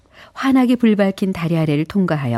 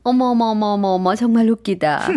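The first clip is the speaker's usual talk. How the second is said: amused scorn; 5 semitones higher than usual. Acted. Lady guest laughs at him.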